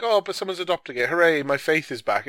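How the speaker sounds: hammed-up joyful relief; sarcastic cheer as if faith returns instantly; mock cheerful. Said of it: "And then it's like".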